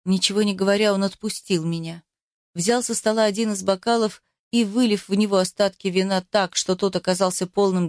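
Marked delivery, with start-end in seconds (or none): none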